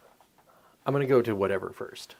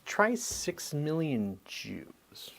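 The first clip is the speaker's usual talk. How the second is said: whisper; 4 semitones higher, 4 dB quieter, much slower than usual. Real, not acted. Pointed correction after wrong guess.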